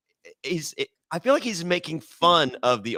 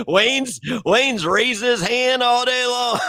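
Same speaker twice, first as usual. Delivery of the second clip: high, louder words through laughter; laughing tease; 9 semitones higher, 5 dB louder than usual. Real, not acted. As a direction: tease him while cracking up. Laughing while teasing Wayne.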